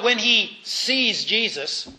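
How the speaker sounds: slow, with "sees" set apart; sees in quotes. Real, not acted. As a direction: pause before "sees", as if putting it in quotes. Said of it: "you'll excuse the expression".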